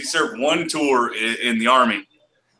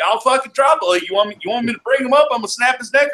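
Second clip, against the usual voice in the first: retold threat; 8 semitones higher than usual.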